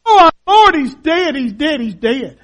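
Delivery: a touch of grief, fading away; mourning disciples, voice sinking; lightly voiced weeping disciple; tearful. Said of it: "with tears blinding".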